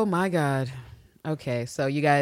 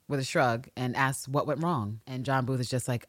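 ordinary delivery

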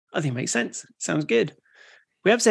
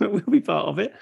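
put-on higher, jokey Australian accent; playful Aussie twang, pitched up; 6 semitones higher than usual. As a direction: carry on the mock Aussie reply. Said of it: "Was that an Australian accent?".

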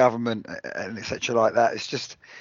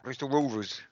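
quick demo of Bristolian; softer second go at a Bristol accent; 7 dB quieter than usual. Shown as a demonstration. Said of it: "speak a bit like that".

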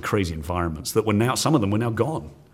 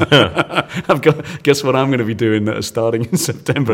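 laughing; 3 semitones higher, 4 dB louder than usual. Retold or imitated. Telling dad about teaching.

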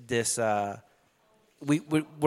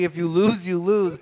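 Drago impression. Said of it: "quoted fucking Drago as saying".

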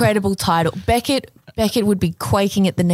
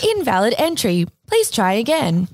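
robot voice. Acted. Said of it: "can I do a robot voice?".

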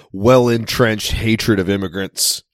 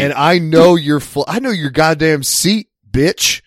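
menacing airline voice; 5 semitones higher than usual. Retold or imitated. Voicing airline threatening.

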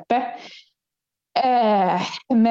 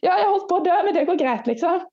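retold relieved exclaiming; 8 semitones higher, faster than usual. Retold relief at aid station.

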